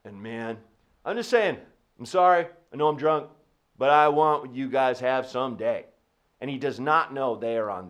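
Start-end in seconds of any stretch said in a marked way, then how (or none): 0.1-5.9 put-on drunk guy. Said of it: "was just drunk".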